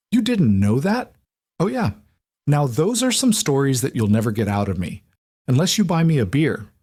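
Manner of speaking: friendly chatty neighbour greeting Alec; cheery Waylon. Acted. Waylon voiced by narrator.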